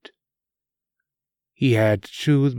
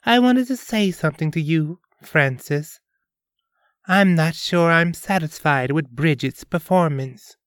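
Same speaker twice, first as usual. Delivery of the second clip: higher, cold princess voice; icy princess; 4 semitones higher than usual. Acted. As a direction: chill him with polite disdain. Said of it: "gaze fell like ice".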